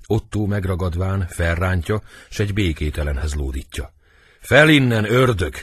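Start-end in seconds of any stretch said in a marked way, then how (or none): 4.4-5.5 high, loud harsh order; acted furious shout; angry stage command. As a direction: order the villain up. Hauls prince up roughly.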